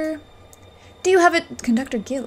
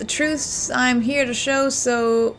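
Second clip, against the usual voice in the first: put-on southern accent. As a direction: draw the rhyme out in a southern accent. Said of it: "I gave you a southern accent".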